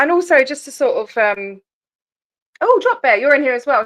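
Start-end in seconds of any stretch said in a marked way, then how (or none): 2.6-3.8 much higher, bright surprised call; happy surprise. Real, not acted. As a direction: pop up in pitch on the name, delighted. Notices a mod is present.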